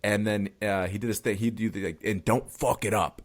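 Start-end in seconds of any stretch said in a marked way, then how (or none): 2.0-3.2 a light, understated hint of Tony Robbins, a touch slow; barely imitating Tony Robbins' pep-talk punch; Tony Robbins impression. Retelling the documentary scene, lightly imitating Tony Robbins. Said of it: "in his, like, you know, Tony Robbins".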